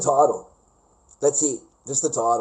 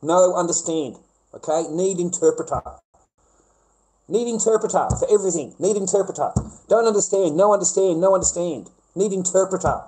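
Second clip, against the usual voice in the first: broken English; 5 semitones higher than usual. Retold or imitated. Mocking a defendant who plays dumb in court, high pidgin. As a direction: sneer it like a fake non-speaker.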